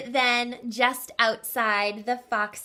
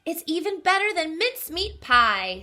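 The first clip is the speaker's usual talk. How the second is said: happy sigh; 7 semitones higher, 4 dB louder than usual. Acted. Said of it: "with a happy sigh".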